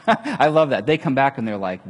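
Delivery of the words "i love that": laughing. Real, not acted.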